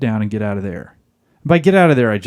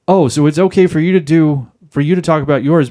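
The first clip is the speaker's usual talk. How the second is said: mock-indignant, louder retort; indignant comeback; 3 semitones higher, 4 dB louder than usual. Wife objecting to husband's complaint, indignant comeback. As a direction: push back quickly, as if wronged.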